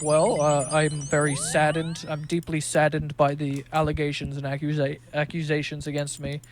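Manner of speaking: lightly voiced pompous press statement; fake adult voice. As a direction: play a teen acting grown-up. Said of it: "trying to put on his best, uh, adult impression".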